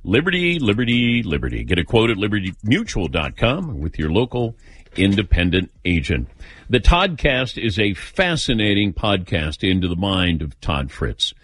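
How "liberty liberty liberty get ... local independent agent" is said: ad read. Acted. Fast insurance ad read.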